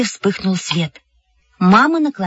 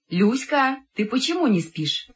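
mother through wall; 4 semitones higher, 6 dB quieter than usual. A narrator's reading.

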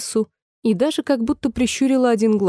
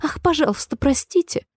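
higher, hasty apology; alarmed exclamation; 6 semitones higher than usual. A narrator's reading. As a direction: blurt it out as a startled plea. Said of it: "снова воскликнула Алиса". (испуганно воскликнуть, повыше)

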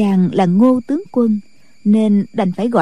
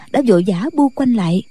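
usual speaking voice

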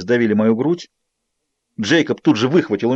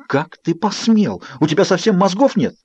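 angry; 6 semitones higher than usual. Acted. Bella furious again.

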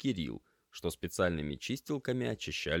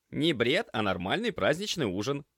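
amused retort; 7 semitones higher, 6 dB louder than usual. Acted. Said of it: "хмыкнул кот".

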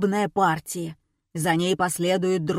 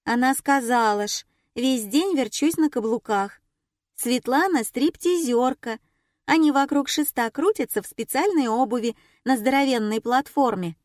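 put-on little girl voice; 4 semitones higher than usual.

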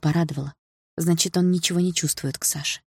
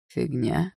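"Фигня" thrown back with a rising tune; "Фигня" rising at the end; echoed question; 2 semitones lower, 4 dB quieter than usual. A narrator's reading. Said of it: "переспросил Дима".

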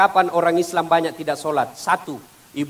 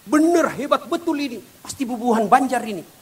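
amazed angel; 6 semitones higher than usual. Acted. Angel marvels at the answers.

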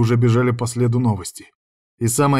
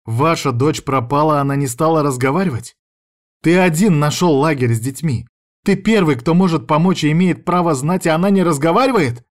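rising higher and louder; wife growing indignant about the ex; working herself up; 5 semitones higher, 4 dB louder than usual. Acted. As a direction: get more worked up each line. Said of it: "взвинчиваясь с каждым словом".

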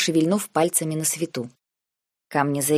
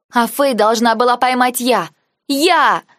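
much higher, louder, the last word yelled; furious cry; 8 semitones higher, 6 dB louder, slower than usual. A narrator's reading. Girl crying out at her uncle, furious yell. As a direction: burst out in hurt fury.

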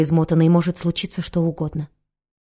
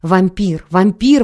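howling yell, building louder; yelling at the top of his lungs; 3 dB louder, much slower than usual. Acted. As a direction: bellow it to the whole town. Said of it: "во всё горло орал дедушка Мередит".

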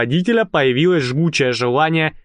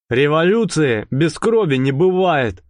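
sinister. Acted. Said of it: "Зловеще".

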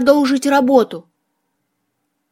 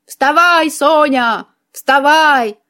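slightly raised, nagging skull voice; obnoxious creaky skull; 3 semitones higher, slower than usual. A narrator's reading. Skull rousing the sleeping witch, lightly voiced nagging creak. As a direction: nag like an annoying creaky skull. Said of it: "противно скрипел череп".

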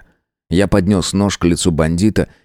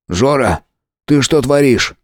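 put-on higher young friend's voice, alarmed; Misha, alarmed; 6 semitones higher than usual. A narrator's reading. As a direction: stop him in shock. Миша в ужасе останавливает друга. (встревоженный Миша)

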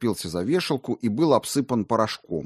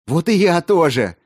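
louder, higher burst of joy; joyful; 8 semitones higher, 8 dB louder than usual. A narrator's reading. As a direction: exclaim it happily. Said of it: "радостно ответил".

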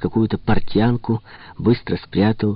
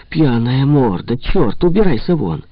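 scolding, shouting; 6 semitones higher, 4 dB louder than usual. A narrator's reading. Hostess chases him off.

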